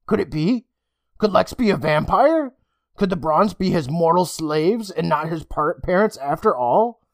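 dawning dread; anxious thoughts. Acted. Emma's panicked thoughts.

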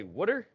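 "wooder" for water, questioning; Philly wooder. Retold or imitated. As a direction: mimic someone querying "wooder". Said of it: "I'm from Philly. It's wooder".

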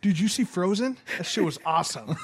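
high, loud hammed-up enthusiasm; mock excited kid talk. Chatting up the lost kid, mock excitement. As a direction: gush about Frozen like a kid.

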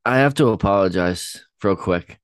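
stuffy head-cold voice; nasal voice. Real, not acted. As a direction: speak through a blocked nose. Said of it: "I sound a little nasally".

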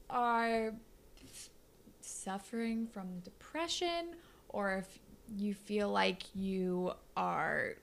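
slow, gentle and sincere. Real, not acted. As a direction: speak slowly, with real care. Sincere mental health PSA.

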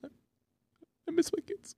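mock sad. Parody Duolingo ad plea.

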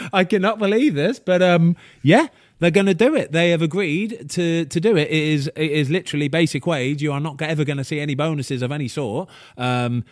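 high, loud, buzzing with disbelief; excited retelling. Retold or imitated. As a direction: relay the news like you can't believe it. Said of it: "the call basically went along the lines of".

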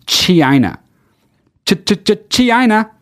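slow motion. Retold or imitated. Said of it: "He says it like it's slow motion".

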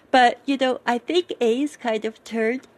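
talking through a real yawn. Real, not acted. Recapping a character's progress to viewers, yawning mid-sentence. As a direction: let a yawn stretch the last words. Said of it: "sorry, yawning here".

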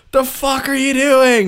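loud, high, drawn-out mock yell; coach's incredulous yell. Coach to his player standing idle, incredulous yell.

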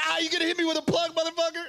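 high, fast mock Mexican accent; bad Mexican accent. Man annoyed by a Spotify plug, bad Mexican accent. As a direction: imitate him indignantly in a Mexican accent. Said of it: "That's a terrible Mexican accent".

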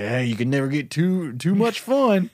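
lightly voiced tipsy dad; drunk dad. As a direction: play it like a cheerful drunk.

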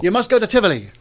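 hammed-up attempt at a Danish accent. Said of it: "That's my best Danish accent".

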